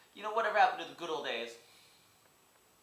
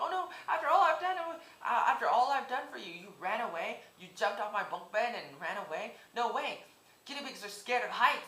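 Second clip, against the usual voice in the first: put-on distraught kid voice; 6 semitones higher than usual. Retelling waking to find the guinea pig gone, higher mock wail. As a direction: ham up a kid wailing over his lost pet.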